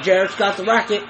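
quick words through a laugh. Real, not acted. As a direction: laugh as you blurt it out. Laughing while watching the match.

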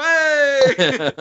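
loud cheerful shout back; group shout. Retold or imitated. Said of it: "we go".

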